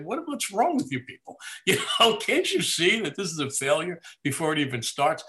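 high-pitched indignant rant, laughing through it; exasperated mock complaint. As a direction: play a kid's outraged letter to the network, way up high. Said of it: "and I'd say".

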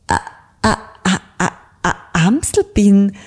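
high, stammering, frightened little voice; desperate stutter. Acted. Frightened little bird stammers to the booming raven. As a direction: stumble over every word in panic. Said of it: "stotterte der kleine Anton Amsel sehr verzweifelt".

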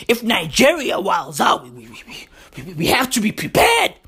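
lightly imitated stammering worrier; worried citizen. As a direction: stumble over repeated words in mock worry. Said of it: "some of y'all are out there going".

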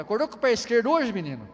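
quick, teasing mother's question. Retold or imitated. Mother teasing her son in the morning, quick and playful. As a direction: rattle it off like a mom. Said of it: "Minha mãe fala".

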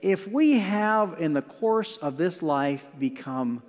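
slow, earnest prayer voice. Acted. Pastor leading the congregation in prayer, slow and earnest. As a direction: pray it slowly, pausing between pleas.

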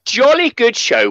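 high, slow posh toff voice; posh English. Pretend. Mocking the English accent, a high, slow posh toff. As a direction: ham up a plummy English gent.

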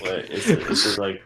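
robotic glitchy connection; low sample rate. Real, not acted. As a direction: voice breaking up over bad line. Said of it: "your voice is becoming robotic".

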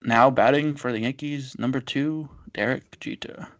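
half-hearted stadium announcer impression; Bob Sheppard. Cohost attempts the classic Yankee Stadium announcer, half-hearted impression. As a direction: try an understated classic ballpark PA announcer, evenly paced. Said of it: "I can't do an impression".

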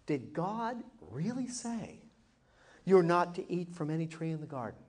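the serpent feigning shock at God's rule; incredulous. Retold or imitated. Preacher voicing the serpent questioning Eve, mock incredulous. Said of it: "with a tone of incredulity".

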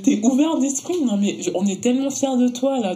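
high, mock-proud sarcasm; sarcastic. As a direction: praise them with dripping sarcasm.

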